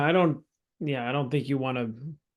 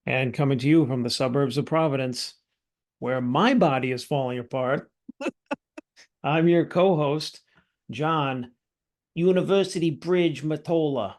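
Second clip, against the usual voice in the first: put-on a light, half-serious Boston gangster accent; mock Boston accent. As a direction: lean lightly into a Boston tough-guy accent. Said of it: "I don't know why I'm doing this accent".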